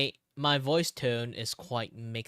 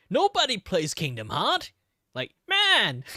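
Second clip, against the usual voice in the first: loud, high exasperated cry; laughing exasperation; exasperated outburst; 10 semitones higher, 11 dB louder, slower than usual. Real, not acted. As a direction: throw it out in playful frustration. Exasperated exclaim.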